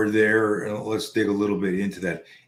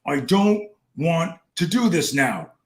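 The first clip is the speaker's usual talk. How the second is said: high, slow imitation of a pleading child; protesting hurt son; 8 semitones higher, 4 dB louder, slower than usual. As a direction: drag it out like a reluctant, hurt kid. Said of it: "he goes".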